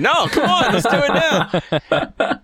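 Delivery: high, laughing, slow plea; hammed-up slow whine; mock pleading. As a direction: beg to play now, half laughing.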